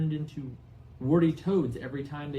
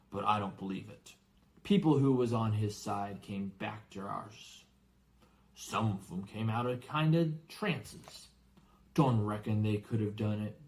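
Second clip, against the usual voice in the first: lightly voiced rough giant, telling a tale; a hint of big friendly giant, musing; gruff giant Hagrid; 2 semitones lower than usual. Hagrid telling Harry about Voldemort, lightly gruff voice.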